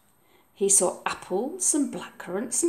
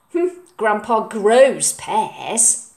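put-on slow sulky boy; 5 dB louder, much slower than usual. Oliver's voice.

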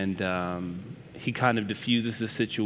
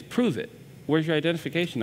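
scornful demand; 6 semitones higher, faster than usual. Retold or imitated. Woman doubting the reporter, demanding his ID scornfully. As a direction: call his bluff, voice shooting up.

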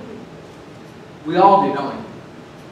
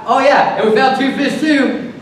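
higher, mock-enthusiastic add-on; sarcastic; 4 semitones higher than usual. Disciples adding two fish to five loaves, sarcastic. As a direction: chirp it with sarcastic cheer. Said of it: "I wonder if this next part is sarcastic".

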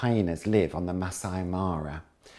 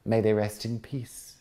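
exclaimed; 4 semitones higher, 7 dB louder than usual. Acted. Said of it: "exclaimed Sue".

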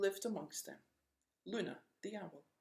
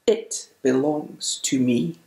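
snarled; 19 dB louder, slower than usual. Acted. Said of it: "snarled the stubborn dragon".

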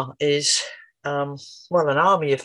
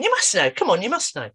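coaxing, insistent and higher; teasing insistence; pushing playfully; 5 semitones higher than usual. Retold or imitated. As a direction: nudge him to answer. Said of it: "I pushed a little bit".

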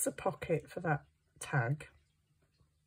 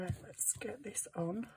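whisper; 4 semitones higher, 10 dB quieter than usual. Acted. Continues whispering.

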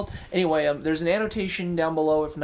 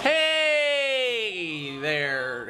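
calling out; 6 semitones higher than usual. Real, not acted. Calling out to friend.

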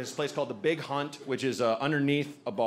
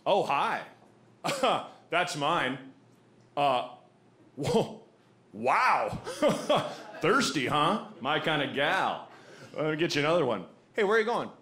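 audiobook version. Retold or imitated. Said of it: "I'll just do the audiobook version".

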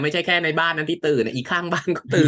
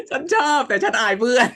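laughing; 11 semitones higher, 4 dB louder than usual. Real, not acted. Giggling confession of shyness.

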